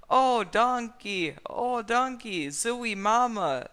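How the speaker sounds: high, loud, slow hammed-up moans; drawn-out mock cries of pleasure; mock ecstasy. A narrator's reading. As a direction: overact the passion.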